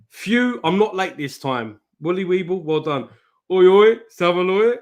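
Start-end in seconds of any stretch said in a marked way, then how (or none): 3.5-4.8 cheery call-out. Real, not acted. Greeting a viewer in chat.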